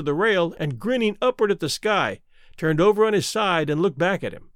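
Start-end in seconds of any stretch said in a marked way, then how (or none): none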